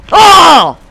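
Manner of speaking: high, loud "oh", falling; frustrated shout. Real, not acted. Player chased down by an opponent, frustrated shout. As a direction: yell one long cry of frustration. Killed in the game.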